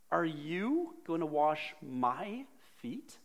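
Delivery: loud, high, disbelieving protest; a shocked disciple who can't believe it; incredulous Peter. Acted. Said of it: "Here's Peter".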